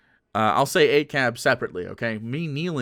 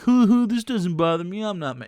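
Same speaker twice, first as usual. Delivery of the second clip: mock unbothered; 6 semitones higher than usual. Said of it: "You're also probably like".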